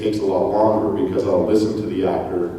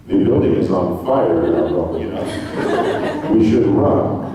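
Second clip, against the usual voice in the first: deadpan flat; slower than usual. Shown as a demonstration. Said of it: "everything was, like, incredibly flat".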